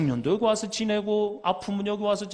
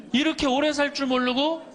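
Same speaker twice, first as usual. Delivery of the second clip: pitched up high on 오래; exclaimed; 8 semitones higher than usual. Acted. Preacher exclaims to the congregation, pitched high on 오래. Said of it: "지금부터 이제 중요한 얘기예요".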